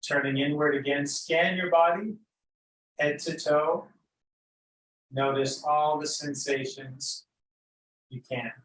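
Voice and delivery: unhurried, lead them gently into noticing breath and body; guided meditation. Real, not acted.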